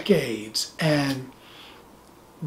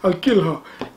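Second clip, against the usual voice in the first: put-on African accent. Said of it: "That's my African accent".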